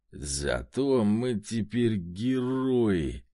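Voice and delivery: put-on slow, dragged-out drunken growl; mild growl of a tipsy soldier. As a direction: growl it slowly, proud and drunk. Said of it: "прорычал тот".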